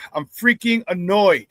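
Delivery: slow, exasperated sigh into the words; sigh, then spell out your irritation slowly; annoyed. Real, not acted. Host venting about a hacked account, real annoyance.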